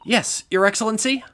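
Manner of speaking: lifted, questioning reply to the bench; defendant answering judge. Acted.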